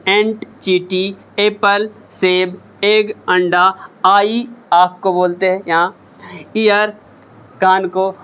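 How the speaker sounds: pace it for pupils to echo; repeat-after-me drill. Shown as a demonstration. Teacher drilling vocabulary for students to repeat. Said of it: "Repeat after me".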